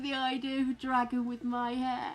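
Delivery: very high, drawn-out laughing squeal; helplessly amused, voice pitched right up; tickled laughter. Real, not acted. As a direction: squeal it through rising laughter. Tickled by a chat message.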